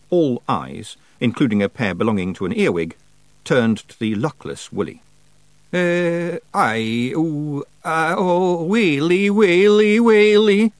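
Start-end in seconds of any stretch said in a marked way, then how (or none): 5.7-10.7 drawn-out wail climbing high and loud; moaning wail. A narrator's reading. Cornered Feegle drops to his knees, moaning. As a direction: moan in rising panic. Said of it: "moaned Daft Willy and dropped".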